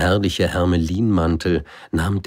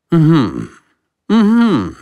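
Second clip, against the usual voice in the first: high, loud pondering hum of a king; royal hum; 12 semitones higher, 10 dB louder than usual. Acted. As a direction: hem and haw grandly. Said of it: "machte der König". (nachdenkliches Brummen des Königs, hoch)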